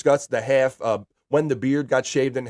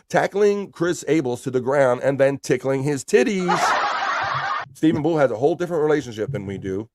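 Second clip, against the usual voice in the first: laughing; 2 semitones higher than usual. Real, not acted. Reads chat laughing.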